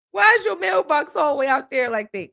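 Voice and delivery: baffled high-pitched protest; incredulous. Retold or imitated. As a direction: complain in utter disbelief. Indignant about distant mailbox.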